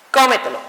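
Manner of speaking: "Cómetelo" with the weight on "Có"; "Cómetelo" stressed at the very start; stress on first syllable. Shown as a demonstration. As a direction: hit the first syllable of "Cómetelo", let the rest fall. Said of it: "su posición fuerte recae en".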